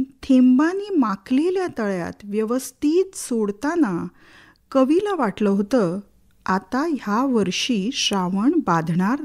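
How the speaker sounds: expressive verse, each phrase set apart by pauses; rhythmic poem recitation. Acted. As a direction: build the list of images rhythmically.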